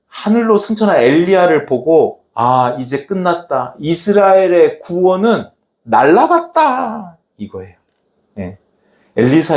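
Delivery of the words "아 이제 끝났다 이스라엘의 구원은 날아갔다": mock lament building to a drawn-out high wail; acted despair. Elisha seeing Elijah taken up to heaven, acted despair. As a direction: cry of lost hope, rising high at the end.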